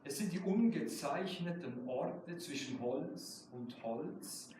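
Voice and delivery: measured German poetry recital, slow on key lines; slow reading of a German poem. Acted. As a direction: read it like your own poem at a reading. Poet reads own German poem.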